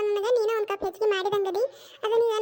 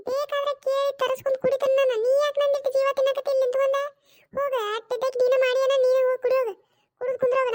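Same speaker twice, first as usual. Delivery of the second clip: cranky mother-in-law, a bit raised and higher; annoyed scolding; 4 semitones higher than usual. Acted. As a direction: shoo the pestering daughter-in-law away. Mother-in-law loses patience, shoos her. (ಸಿಟ್ಟಿನಿಂದ ಗದರಿಸುವ ಅತ್ತೆ)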